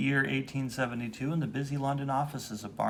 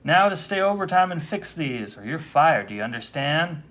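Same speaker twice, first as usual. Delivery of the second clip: scolding boss; 6 dB louder than usual. Acted.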